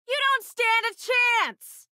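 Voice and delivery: slow defiant battle shout at the enemy; taunting shout. Acted. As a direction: yell it across the battlefield. Crew member taunting enemy ship.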